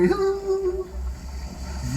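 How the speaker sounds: a real laugh, pitched high. Real, not acted. Laughs at friend's joke.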